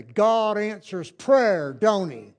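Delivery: put-on very slow, drawn-out old man voice; toothless old man. Shown as a demonstration. Toothless driver grins back at the boy, very slow. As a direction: let each word hang with a grin. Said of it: "look at two people and say".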